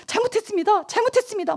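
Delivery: scared crying plea. Retold or imitated. 훔치다 걸린 아이가 주인 아저씨에게 겁에 질려 비는, 떨리는 울먹임. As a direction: beg for forgiveness through tears. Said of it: "계속 외우는 거".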